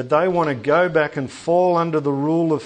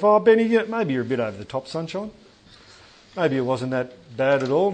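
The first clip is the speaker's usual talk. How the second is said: doubting listener. Pretend. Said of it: "you might be sitting here thinking to yourself".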